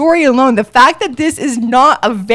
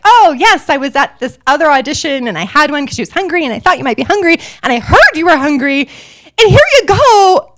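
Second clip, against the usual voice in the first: panicked babble; 4 semitones higher than usual. Retold or imitated. Nervous contestant explaining the Snickers bar to Tyra, panicked rush. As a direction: blurt it all out in a panic. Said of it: "in this panicked, shaking, fast way".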